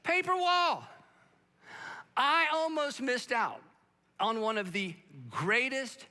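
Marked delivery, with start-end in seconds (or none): 0.0-0.8 higher, louder stress on "paper wall"; preacher driving home the point, loud; emphatic. Real, not acted. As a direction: punch "paper wall" hard after the pause. Climactic point of sermon.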